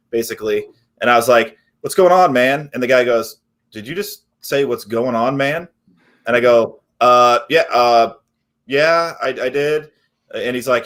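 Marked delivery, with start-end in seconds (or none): 1.8-2.7 imitated breezy sales greeting; breezy caller greeting. Replays own first cold-call opener. 3.7-5.7 imitated deadpan customer; unimpressed customer echo. Customer echoes the greeting, unimpressed. 7.0-9.9 hesitant admission. Retold or imitated. Caught out, answers the customer haltingly.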